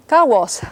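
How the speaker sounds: kawas ending in a breath of whispered A after S; whispered final vowel. Shown as a demonstration. Teacher gives coyote example, kawas with whispered ending. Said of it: "only that vowel part is whispered".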